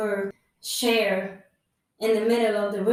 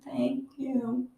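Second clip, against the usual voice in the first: slow, drowsy whisper; weak whispered thanks; 6 dB quieter, much slower than usual. Retold or imitated. Thanking the kind nurse while going under, whispered. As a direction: breathe the thanks out as you fade. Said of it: "And I'm like".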